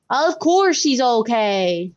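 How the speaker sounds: slow Southern drawl; Southern accent. Acted. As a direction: stretch it out like a Southerner. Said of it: "We're gonna make her real Southern".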